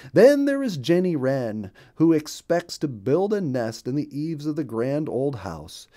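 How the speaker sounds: a friendly chirpy little bird; cheerful bluebird voice. Acted. Bluebird tells the ducks about his home.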